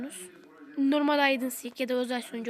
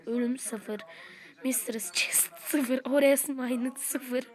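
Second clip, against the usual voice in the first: slow reading; much slower than usual. Real, not acted. Reading stat list slowly.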